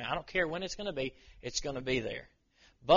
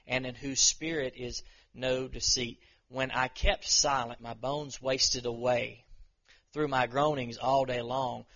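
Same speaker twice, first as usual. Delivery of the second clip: solemn scripture reading from the pulpit. Acted. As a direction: read the psalm with weight, pausing between lines. Reads Psalm 32 aloud.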